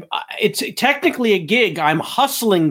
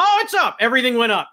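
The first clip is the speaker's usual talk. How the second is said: excited; 6 semitones higher, faster than usual. Acted. Day trader bit, stock rising.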